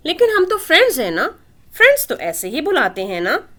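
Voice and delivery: put-on high, quick child's retort; a toddler quickly winning the argument; quick little girl. A narrator's reading. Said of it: "उसने झट से एक और मंतक पेश की".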